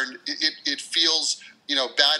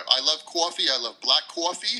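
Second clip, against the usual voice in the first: New York accent. Shown as a demonstration. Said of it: "That is an expert New York accent".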